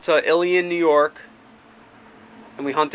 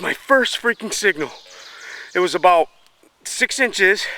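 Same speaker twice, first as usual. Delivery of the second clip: excited; 3 semitones higher than usual. Real, not acted. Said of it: "I'm out of breath".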